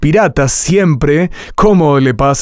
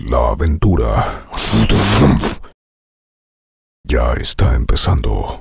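like strangers approaching a strange hole; mysterious trailer voice; 12 semitones lower, 3 dB quieter than usual. Shown as a demonstration. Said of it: "Imagínate que están llegando".

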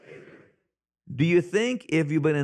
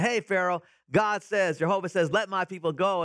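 eager, raised pitch, proud announcement; excited Moses; 4 semitones higher than usual. Retold or imitated. Moses excitedly telling Pharaoh, higher eager voice. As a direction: Moses bursting to deliver God's message. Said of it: "like, excited".

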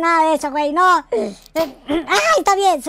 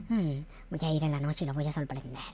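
much lower and softer, plotting; hushed revenge plotting; scheming murmur; 12 semitones lower, 11 dB quieter than usual. Acted. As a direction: murmur the plan to yourself.

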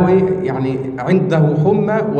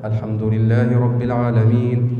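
lower, recited الحمد لله رب العالمين in the base maqam tone; low qarar register; 6 semitones lower than usual. Shown as a demonstration. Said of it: "قرار".

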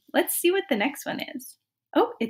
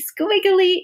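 squiggly voice; 8 semitones higher, 4 dB louder than usual. Shown as a demonstration. Teacher showing squiggly line.

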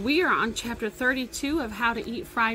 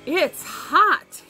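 louder, higher voice for the dad; father voice; 5 semitones higher, 8 dB louder than usual. Acted. Father character line read aloud.

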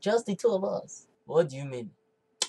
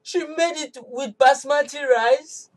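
slow, higher, stretched in disbelief; appalled disbelief; 6 semitones higher, 4 dB louder, slower than usual. Acted. Wife hears her jollof was made with basmati, slow scandalised disbelief. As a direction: drag out each word, scandalised.

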